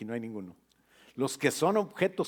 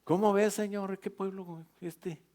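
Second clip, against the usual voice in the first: a mock complaint to the Lord, much higher; exasperated Moses; 7 semitones higher than usual. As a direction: Moses grumbling to God about his people, high and exasperated. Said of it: "Moses complaining to God".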